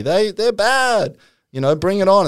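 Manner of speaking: lightly voiced spirit passing judgment; Margaret Thatcher. Medium as Thatcher judges the Labour Party, mock disapproval. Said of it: "they start asking".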